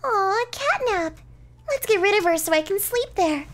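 high and loud kitty character; self-centred cat. Acted. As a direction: pipe up eagerly as a covetous cat. Cat character covets the bed.

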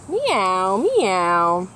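a hungry cat's mew; catbird meow. Acted. Reading to kids, the catbird's hungry meow. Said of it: "Catbird sounds like a hungry cat".

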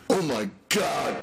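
anguished cry. Acted. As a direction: cry out, winded and hurting. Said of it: "Tubby cried".

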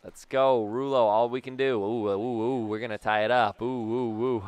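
excited wavering oohs. Real, not acted. Player hoping to tie it up, excited. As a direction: let eager oohs bubble round the words. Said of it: "the excitement in my excited voice".

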